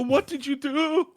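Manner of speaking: high-pitched whiny imitation of crying; hammed-up tearful plea; mock crying. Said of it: "like, was crying and go".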